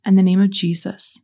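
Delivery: clear, firm lead line; leading a prayer. Shown as a demonstration. Leading listeners in renouncing spirits, firm prayer lead. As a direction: give the line for others to echo. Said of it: "repeat after me".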